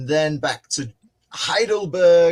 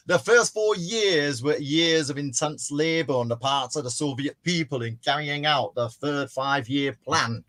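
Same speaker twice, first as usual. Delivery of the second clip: understated northern English speech reading; lightly done northern English oratory; northern English accent. Acted. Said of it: "I'll do the northern one".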